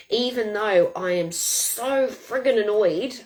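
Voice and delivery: drawn-out, mildly exasperated; annoyed. Shown as a demonstration. Coach demonstrating a tapping setup for anger, annoyed. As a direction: lean on a long "so friggin'".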